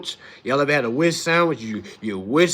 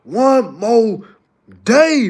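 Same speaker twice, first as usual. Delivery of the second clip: slow, stretched "one more day" building louder; weary sigh; 4 semitones higher, 7 dB louder, much slower than usual. Retold or imitated. Tired worker on Thursday, slow building sigh. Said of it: "It's like".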